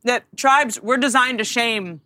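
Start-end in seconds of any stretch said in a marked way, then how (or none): 0.0-0.8 talking while eating; words round a bite of food; mouth full. Real, not acted. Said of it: "I'm actually eating on this show".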